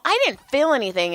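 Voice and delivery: high, quick retold protest; baffled protest. Retelling her protest to the dad.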